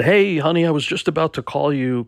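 a touch of excited agent on the phone; agent's upbeat greeting. Retold or imitated. Retold agent greeting her client.

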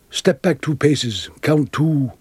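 slow, deliberate step-by-step instruction; measured instruction. Retold or imitated. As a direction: give the directions slowly, pausing between steps. Retelling Gielgud's quiet first instruction.

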